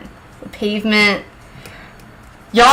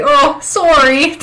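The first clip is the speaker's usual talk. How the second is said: slow, higher Canadian apology; mock Canadian accent; 4 semitones higher, slower than usual. Teasing a Canadian on Discord, mock Canadian accent. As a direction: stretch out a teasing Canadian "sorry". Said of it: "guy that's in our Discord who's Canadian".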